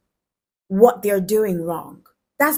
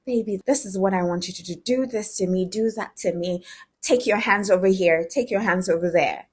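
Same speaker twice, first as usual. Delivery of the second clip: sexy voice. Shown as a demonstration. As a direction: coax a lover gently with mild seduction. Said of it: "the most sexy voice ever".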